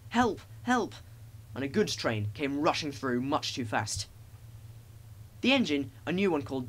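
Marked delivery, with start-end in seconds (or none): 0.1-0.9 short, very high cries for help; whistling cry. A narrator's reading. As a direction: shriek it like a train whistle. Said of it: "heard an engine whistling".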